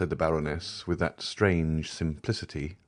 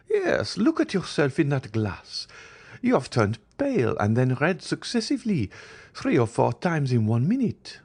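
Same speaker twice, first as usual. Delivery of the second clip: concerned Baroness; 9 semitones higher than usual. A narrator's reading. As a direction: point out her paleness with care. Baroness notices Valentine's pallor.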